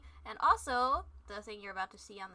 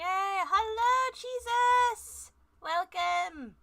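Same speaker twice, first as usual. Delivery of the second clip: loud, high, bright welcome to chat; excited greeting; 8 semitones higher, 10 dB louder, much slower than usual. Real, not acted. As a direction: greet everyone with a burst of energy.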